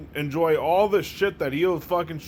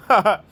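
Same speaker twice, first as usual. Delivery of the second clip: mild chuckle; 5 semitones higher, 8 dB louder than usual. Shown as a demonstration. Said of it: "like, mild chuckles".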